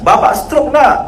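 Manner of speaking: imitated ustadz cutting in angrily; retold harsh question. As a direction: snap the question at him. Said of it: "Langsung digas".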